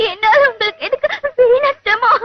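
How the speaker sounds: tearful, sobbing protest; crying. Acted. Girl in tears to the young man offering help, crying. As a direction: speak through sobs. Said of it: "வயசு பையன் முன்னாடி அழுதா".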